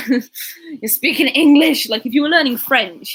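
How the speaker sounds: high, loud mock-exasperated outburst; mock exasperation. Vlogger reacting to Germans' American accents, exasperated. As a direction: protest loudly in exaggerated exasperation.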